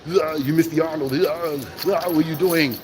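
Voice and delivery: playful strongman impression with groaned filler sounds; Arnold. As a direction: grunt it out in a mock Austrian accent. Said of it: "I gave you a little bit of Arnold".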